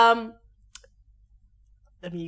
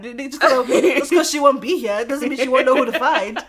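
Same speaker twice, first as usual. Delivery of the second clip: loud talk through laughter; laughing; 5 semitones higher, 11 dB louder than usual. Real, not acted. Warning a friend her sister will know, laughing. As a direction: keep arguing while cracking up. Jokes about being found out.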